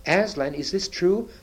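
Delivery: high-pitched, alarmed questioning; shocked cry. A narrator's reading. Queen demanding the truth from Edmund, shocked cry. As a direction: demand it in high, startled disbelief. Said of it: "cried the queen".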